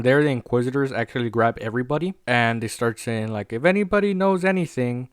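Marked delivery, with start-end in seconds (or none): 3.5-5.1 pitched-up mock announcement to a crowd; retold public demand. Inquisitors addressing everybody they grabbed, raised mock demand. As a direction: call it out high, as if to everybody.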